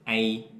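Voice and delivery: "A" said southern style; southern vowel. Shown as a demonstration. Teacher demoing the southern vowel sound. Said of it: "we pronounce like this".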